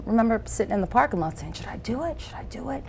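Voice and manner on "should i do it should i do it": high, hushed dithering to oneself; hesitant self-questioning. Retold or imitated. Sitting in the parking lot wondering whether to audition, hushed and hesitant. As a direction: ask yourself softly, unsure.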